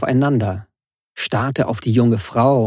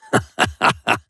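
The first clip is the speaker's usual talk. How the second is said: gloating laugh. Acted. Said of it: "Er lachte".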